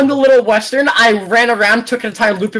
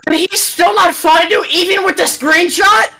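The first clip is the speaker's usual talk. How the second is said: high, exclaimed disbelief; incredulous shout; 5 semitones higher than usual. Real, not acted. Player amazed the seeker is still lost, incredulous shout. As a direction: cry out in disbelief.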